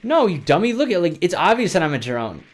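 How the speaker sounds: high, teasing scold; playful scolding. Acted. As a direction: tease him like a dummy. Playful retort about drone.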